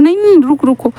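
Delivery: urgent call to stop. Retold or imitated. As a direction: rush to stop him before he leaves. Wing calls Wangji to stop. (घबराकर ऊँची आवाज़ में रोकना)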